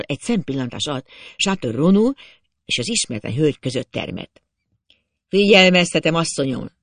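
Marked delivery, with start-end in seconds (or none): 5.3-6.7 angry through teeth. A narrator's reading. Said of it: "szólt Chateau Renaud dühösen, összeszorított fogakkal".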